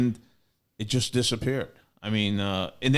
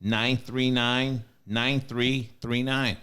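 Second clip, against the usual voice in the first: slow phone number read; much slower than usual. Shown as a demonstration. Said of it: "Can you say that one more time?".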